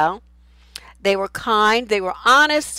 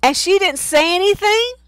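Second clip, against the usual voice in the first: much higher, incredulous question; outraged disbelief; 11 semitones higher, 4 dB louder than usual. Real, not acted. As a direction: ask in shocked disbelief. Reacting to shocking comment.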